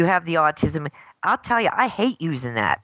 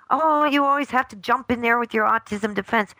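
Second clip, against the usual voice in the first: higher-pitched mock accusation; mimicked complaint; 6 semitones higher than usual. Parent mimics the accusation thrown back at her, higher complaining voice. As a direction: imitate an exasperated accuser.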